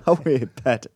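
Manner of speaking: loud, hammed-up Geordie; Geordie accent. Co-host greeting a Newcastle listener, broad mock Geordie. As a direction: lay the mock Geordie on thick. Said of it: "Should I do a Geordie accent?".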